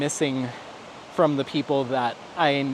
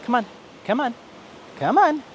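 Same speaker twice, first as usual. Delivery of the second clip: calling out; 9 semitones higher than usual. Real, not acted. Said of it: "calling to something nearby".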